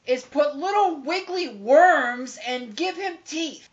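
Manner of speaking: high, loud, drawn-out exasperation; exasperated rant. Real, not acted. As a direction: rant slowly and loudly in disbelief. Ranting about the bad film.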